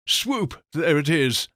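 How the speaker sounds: bright cheer on the swoop; cheery call. Acted. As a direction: call it out with a lift.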